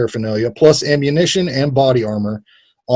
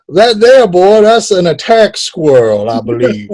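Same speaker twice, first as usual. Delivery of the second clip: slow, louder mock Alabama drawl; bad Southern accent; 4 semitones higher, 4 dB louder than usual. Host doing his bad Alabama accent about the attack squirrel. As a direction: drag out a hammed-up Southern accent. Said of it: "I'm gonna do my bad accent again".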